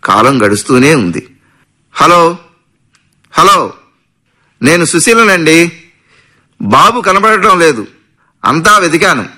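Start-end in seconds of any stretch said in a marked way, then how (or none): 1.9-5.7 higher, slow, anxious voice on the phone; a frightened mother calling her husband. A narrator's reading. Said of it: "కంగారుగా భర్త సత్యంకు phone చేసింది". 6.6-7.9 put-on higher and slow, panicking over the missing baby; frightened, pleading బాబు కనబడటం లేదు; anxious. A narrator's reading. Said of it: "కంగారుగా". 8.4-9.3 a frightened mother calling her husband; anxious phone call. A narrator's reading. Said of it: "కంగారుగా".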